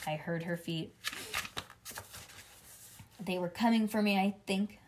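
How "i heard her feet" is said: usual speaking voice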